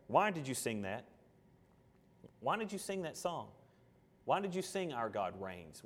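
quiet, hurt questions; soft questioning. Acted. Jesus quietly asks the churchgoer why they sang it. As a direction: ask gently, almost under the breath.

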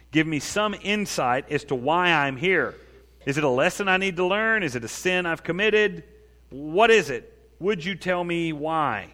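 slow, deliberate imploring; acted plea. David asks God for some insight, slow acted pleading. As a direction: plead for an answer, stretching the words.

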